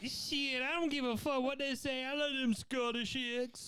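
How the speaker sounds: put-on high-pitched caricatured Black American accent. Comic playing an Irishman, in a Black American accent. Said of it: "can you do a black accent of someone".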